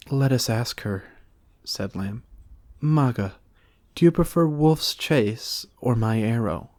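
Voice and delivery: a playful, lofty Lamb; Lamb's voice. A narrator's reading.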